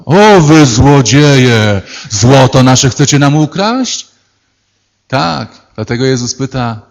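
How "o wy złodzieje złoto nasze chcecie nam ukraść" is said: slow, loud indignant cry of thieves; outraged accusation. Retold or imitated. Golden people accuse thieves. (powolny, oburzony okrzyk)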